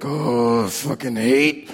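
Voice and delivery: low, slow, sulky grumble; mock whiny coworker. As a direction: mimic a coworker moaning about the job. Coworkers mocked complaining at work.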